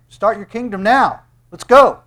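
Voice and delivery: high, loud impatient urging; pushy brothers. Acted. Brothers urging Jesus to start his kingdom, loud and impatient. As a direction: egg him on like pushy brothers. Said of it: "Jesus' brothers walk up to Jesus and they go".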